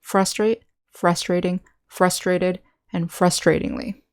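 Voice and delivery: "Frustrate, frustrating, frustrated, frustratingly" each stressed on FRUS; first-syllable stress. Shown as a demonstration. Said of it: "stress is on the first syllable".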